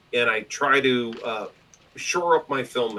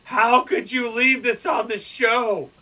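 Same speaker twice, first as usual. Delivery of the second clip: mock outrage; 8 semitones higher than usual. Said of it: "And I'm like".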